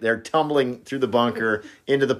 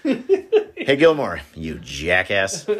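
retold heckle; much slower than usual.

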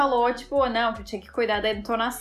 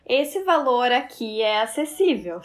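mock polite phrasing. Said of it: "falava assim".

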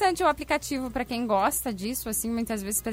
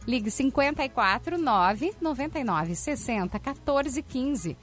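upbeat radio ad read; hard sell ad; 2 semitones higher than usual. Acted. Reads sponsor ads on air.

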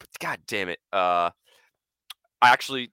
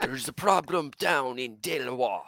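hint of a menacing crime boss; mock mob boss.

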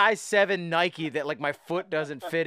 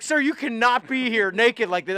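mildly alarmed, higher-pitched staff imitation; flipping out; 4 semitones higher, 3 dB louder than usual. Hotel staff to a naked guest in the lobby, flipping out. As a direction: retell a flustered employee laying down the rule. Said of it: "They're flipping out like".

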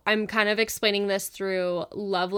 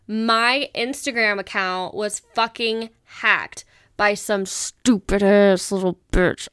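louder, slow and furious; angry rant; 5 dB louder than usual. Real, not acted. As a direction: spit out the insult. Ranting about account hacker.

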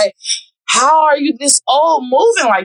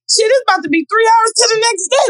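half-crying mock yell, higher; mock panic; 8 semitones higher than usual. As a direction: wail it like the night is ruined. Panicking about late hour.

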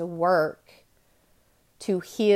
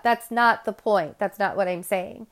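ordinary delivery

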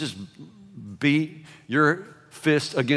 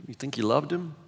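softer, skeptical murmur; doubtful whisper; 9 dB quieter than usual. Retold or imitated. Whispering mourners doubting Jesus's love, hushed. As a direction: hush it like gossip. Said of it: "that's what people are whispering".

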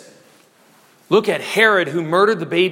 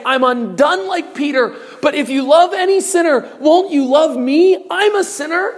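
humble plea; 5 semitones higher than usual. Acted. A humbled sinner praying to Christ, pleading. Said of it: "go to Christ in humility and say".

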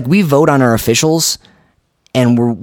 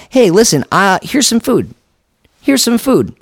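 voiced grateful guy; 4 semitones higher than usual. Voicing a grateful recipient.

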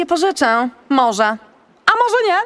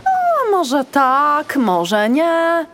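slow, teasing and mysterious; enigmatic; much slower than usual. Acted. Agata teases Basia, slow and enigmatic. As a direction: draw it out coyly, keep them guessing. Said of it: "Odpowiedziała enigmatycznie Agata".

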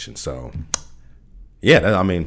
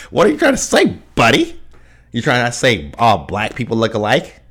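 much higher put-on entitled white voice; white voice impression; 3 semitones higher, 5 dB louder than usual. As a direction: play an entitled customer with a white voice. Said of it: "impersonation of a black person with a white voice".

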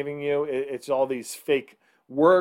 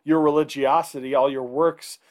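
sarcastic. Retold or imitated. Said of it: "almost being kind of sarcastic".

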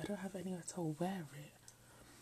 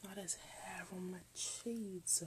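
dismayed whisper; 6 dB quieter, slower than usual. Real, not acted. Dropped cheese dismay.

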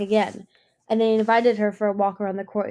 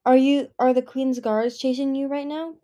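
sharp; 5 semitones higher, 4 dB louder than usual. Acted. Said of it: "Prickle said sharply".

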